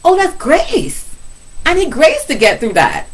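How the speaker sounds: sudden gasp of insight; realization. Retold or imitated. Preacher hearing the Spirit about her meeting, high surprised realization. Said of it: "And I was like".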